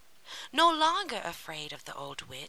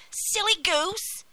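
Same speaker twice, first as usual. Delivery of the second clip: high, loud, drawn-out witch; scolding witch; 13 semitones higher, 6 dB louder, slower than usual. A narrator's reading. Witch chides Gretel at the oven, impatient. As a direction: chide her loudly as the witch. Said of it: "said the witch".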